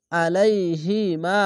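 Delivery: very slow drawn-out recitation; Quran recitation. Shown as a demonstration. Teacher showing students the recited word, slowly drawn out. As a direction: stretch each syllable like tajweed. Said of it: "এক আলিফ টেনে পড়বেন".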